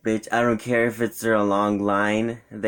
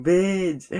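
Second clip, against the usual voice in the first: high, loud mock outburst; sudden high-pitched yelp of outrage, re-enacted; imitated yell; 12 semitones higher, 5 dB louder than usual. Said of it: "Like, so loud".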